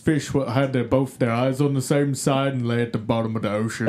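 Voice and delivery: lightly goofy, clueless dimwit voice; dumb guy voice. Acted. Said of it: "I was just doing my dumb guy voice".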